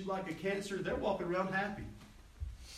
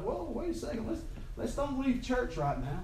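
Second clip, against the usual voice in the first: raised-pitch acted interruption; halting someone; 7 semitones higher than usual. Pastor retells calming an upset church member, halting them. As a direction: jump in high to stop them leaving.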